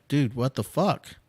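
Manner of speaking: half-joking angry challenge to the sky; exasperated outcry at God. Retold or imitated. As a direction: vent at God like he's asleep on the job. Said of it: "and it's like".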